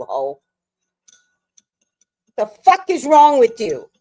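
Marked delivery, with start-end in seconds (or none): 2.4-3.9 higher and louder, stressing wrong; louder exasperated outburst. Real, not acted. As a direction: let the anger burst out this time. Repeated angry outburst.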